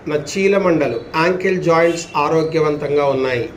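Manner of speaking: measured affirmations with long falling endings; steady, unhurried relaxation guidance; guided yoga nidra. Acted. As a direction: intone it for listeners to follow, drawing out the last word.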